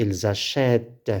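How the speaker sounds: "achètent" slowly, with open è and released t. Shown as a demonstration. Teacher showing the sound change, slow open è in "achètent". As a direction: draw out the è in "achètent". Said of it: "La prononciation se change".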